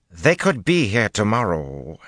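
snapped. A narrator's reading. Commander cutting off her officer, snapping. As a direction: cut in with a sharp snap. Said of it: "she snapped".

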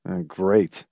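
quiet, dazed hesitation. A narrator's reading. Hamilton answering his guest, still dazed. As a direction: answer as if still stunned, softly. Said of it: "still dazed".

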